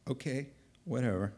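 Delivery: low, quick shrug-off; dismissive. Acted. God moves past Gideon's whining, dismissive. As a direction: toss it away, unbothered.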